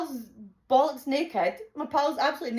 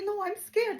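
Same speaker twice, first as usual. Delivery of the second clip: retold panic; 9 semitones higher than usual. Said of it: "She's panicking".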